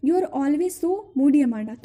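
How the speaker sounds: slow, drawn-out reading of a scolding; poem recitation. Acted. Teacher reciting the mother's scolding, slow recitation. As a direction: read each scolding line slowly to the class.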